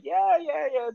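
imitating grandparents. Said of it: "They're like".

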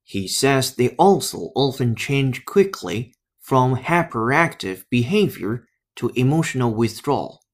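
slow careful echo of the American recording; teacher repeating the clip. Shown as a demonstration. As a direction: repeat the sentence slowly for learners. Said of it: "Listen up". (慢速跟读示范)

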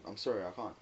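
soft, low apologetic no; polite refusal. Retold or imitated. Retelling a refusal to his manager, softly polite. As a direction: turn them down gently and politely. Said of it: "I said it really polite".

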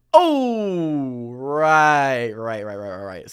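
from startled to sheepish mumble; awkward backpedal. Retold or imitated. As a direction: trail off in embarrassment. Awkward retreat, fading.

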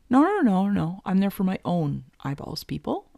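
mock protest. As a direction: protest it to the room. Insisting to imagined onlookers.

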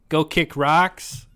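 quoting his catchphrase. Retold or imitated. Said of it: "Steven's favorite phrases".

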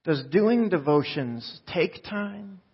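very slow, deliberate challenge; slow pointed question. Retold or imitated. The speaker challenges the audience, very slow and deliberate. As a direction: lay out each word slowly as a challenge. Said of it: "and I'll never forget".

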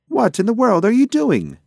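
high, loud indignant squawk of a question; startled outburst. A narrator's reading. Pigeon woken by tickling demands an explanation, startled and loud. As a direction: woken with a jolt, voice shooting up.

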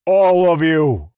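slow, high, loud call for silence; shouted. A narrator's reading. Rlain shouting over both quarreling groups. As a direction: command the whole crowd.

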